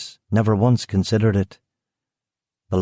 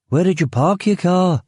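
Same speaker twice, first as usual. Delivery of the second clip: guard's voice; 9 semitones higher than usual. Acted. Guard asks.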